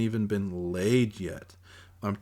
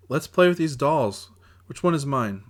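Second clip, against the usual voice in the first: playful; 6 semitones higher, 6 dB louder than usual. Acted. Brother plays dolls, high.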